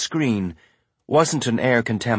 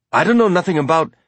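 high, fast, frightened protest; panicked protest; 7 semitones higher, 4 dB louder, faster than usual. A narrator's reading. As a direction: blurt it out in a panic. Guard protests, cut off.

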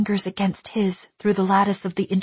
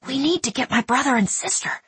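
put-on urgent boy; 7 semitones higher than usual. A narrator's reading.

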